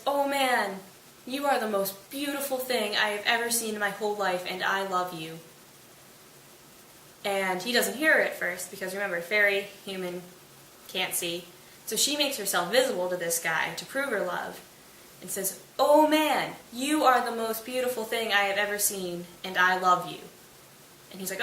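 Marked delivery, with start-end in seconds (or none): 0.0-5.4 mild swooning, easing down at the end; lightly acted adoring declaration; love-struck gushing. Love-struck Titania's first, unheard declaration. 15.8-20.2 hammed-up adoration, hitting the first words hard; emphatic love-struck declaration. Titania repeats it, now visible.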